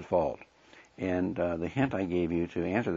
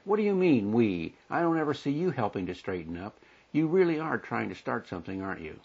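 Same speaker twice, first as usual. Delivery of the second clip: high, sharp retort as the annoyed wife; a touch of an offended wife striking back; indignant wife; 4 semitones higher than usual. Retold or imitated. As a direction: toss the blame back at him, higher. Wife snapping in acted quarrel.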